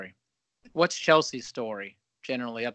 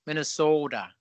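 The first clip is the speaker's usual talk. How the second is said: lightly imitated Minnesota accent with a long round O; imitation Minnesota twang. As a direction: say it with a mild Minnesotan O. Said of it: "you know that Minnesota thing".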